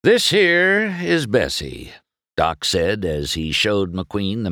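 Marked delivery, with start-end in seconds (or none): 0.0-1.9 high, drawn-out proud presentation; Doc showing off Bessie. A narrator's reading. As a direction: present her slowly and loftily, pitched up.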